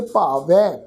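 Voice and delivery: ਭਾਵੈ ending on an open ai vowel; low-pitched ਭਾਵੈ, final vowel an open ai. Shown as a demonstration. Teacher demonstrating double vowel sign, ai ending on ਭਾਵੈ. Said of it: "ਦੁਲਾਵਾਂ ਦਾ ਪਾਠ ਉਚਾਰਨ ਕਰਾਂਗੇ".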